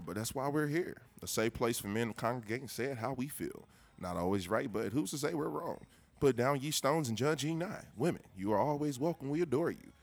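hard sell ad; commercial voice. Pretend. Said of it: "practice my, uh, commercial voice".

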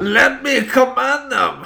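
hammed-up French villain accent. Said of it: "in the French accent".

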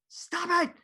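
high-pitched exasperated parental yell; yelling upstairs. Retold or imitated. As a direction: holler it up to a kid upstairs. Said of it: "yelling up to him".

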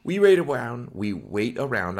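mumbling like no teeth; gummy, toothless speech; toothless mumble. Real, not acted. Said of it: "I don't know why I'm talking like I have no teeth".

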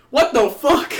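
high, loud disbelief; shocked outburst. Retold or imitated. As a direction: blurt it out stunned. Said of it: "He was like".

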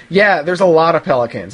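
mock-resentful deadpan reply; bitter, resentful. Mother answering her kid with mild resentment. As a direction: let a little bitterness creep in. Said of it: "a little bit of resentment in her voice".

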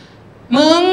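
drawn-out, rising gossip call; gossipy. Acted. Woman to friend with juicy gossip to share, gossipy. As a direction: stretch it out, bursting to dish gossip. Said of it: "อันนี้คือมีเรื่องจะเมาส์ นินทาซุบซิบ".

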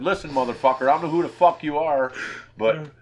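mock furious phone rant; retold angry threat. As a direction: yell it at the prank caller.

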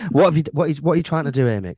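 high, loud and baffled; shocked high exclamation. Pretend. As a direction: demand what on earth he's doing. Voicing partner finding him folded.

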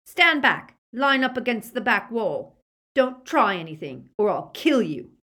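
loud, high, nervous threats; frightened young man's shouted commands; shaking voice. A narrator's reading. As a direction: order them back, scared behind the bravado. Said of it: "Draco's shaking voice spoke from behind the door".

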